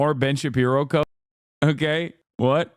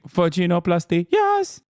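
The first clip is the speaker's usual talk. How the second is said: mock movie line; 2 semitones higher than usual. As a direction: imitate the doctor, yelp the yes. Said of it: "Well, excuse me".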